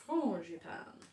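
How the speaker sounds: frangipane as fron-zhi-pan; learned pronunciation. Shown as a demonstration. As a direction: show off frangipane with a long first vowel. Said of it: "now I know how to say it".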